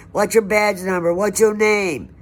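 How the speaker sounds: high, loud demands at the cop; retold yelled demand. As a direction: shout the questions at him. Demanding the officer's name.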